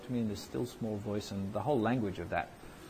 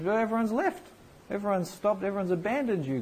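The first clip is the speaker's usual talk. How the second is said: higher, louder whiny prophet; Elijah complaining; 10 semitones higher, 5 dB louder than usual. Acted. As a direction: sulk and protest to God like a hissy fit. Elijah voiced complaining to God.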